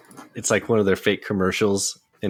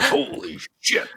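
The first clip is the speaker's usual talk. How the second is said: mock yell; 14 semitones higher than usual. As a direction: imitate the pilot's cry up high. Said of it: "by going".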